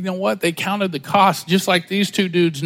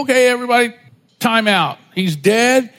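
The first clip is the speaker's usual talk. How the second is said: mock calling out; 4 semitones higher, 3 dB louder than usual. Acting soldier halting a battle.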